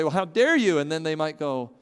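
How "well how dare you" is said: mock offended. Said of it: "get a little upset and offended and say".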